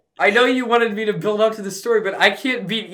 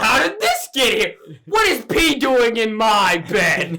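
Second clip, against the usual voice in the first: mock outraged kid; slower than usual. Acting the kid switching blame.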